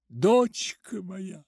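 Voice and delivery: usual speaking voice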